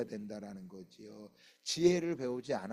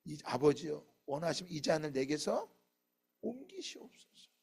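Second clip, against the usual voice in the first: acted prayer; 8 semitones higher, 8 dB louder than usual. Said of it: "주님 앞에 기도했죠".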